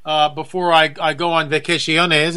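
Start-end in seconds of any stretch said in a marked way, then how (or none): 1.5-2.4 put-on vacaciones with a light Spanish accent; mock Spanish word. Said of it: "as they say down south of the border".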